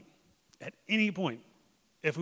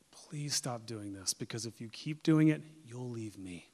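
gentle plea. Acted. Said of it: "Do you hear the difference?".

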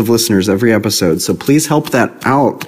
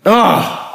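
disappointed groan; 9 semitones higher than usual. Real, not acted. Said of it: "I'm so disappointed".

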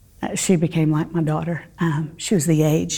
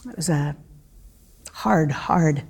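whispered, grief catching the words; hushed with real pain; broken whisper; 4 dB quieter than usual. Real, not acted. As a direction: let it drop to a breath. Grief recalling lost baby.

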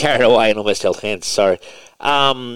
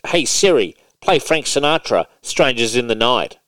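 raised, clear voice command to Siri; commanding the phone; 3 semitones higher than usual. Shown as a demonstration. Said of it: "So I'm like".

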